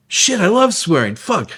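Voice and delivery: high, delighted mock cursing; imitating a thrilled old hippie; gleeful swearing. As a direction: relish each curse word like a treat. Man quoted delighting in swearing.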